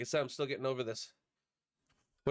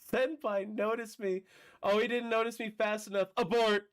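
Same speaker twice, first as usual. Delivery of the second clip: imitating anime fan; 8 semitones higher, 4 dB louder than usual. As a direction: squeal the clip back in a high voice. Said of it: "my favorite one of those clips".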